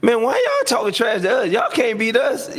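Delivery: mock trash talk. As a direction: yell it like trash talk back. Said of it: "We like".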